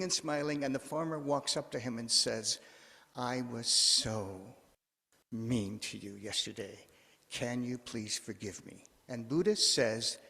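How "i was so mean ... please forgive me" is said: acted-out humble plea for pardon; contrite apology. Farmer asking Buddha's forgiveness next day, contrite.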